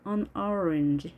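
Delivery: very weak "an", stress falling on "orange". Shown as a demonstration. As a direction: barely stress "an" before "orange". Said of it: "on의 강세는 매우 약하게". (an은 매우 약하게, orange에 강세)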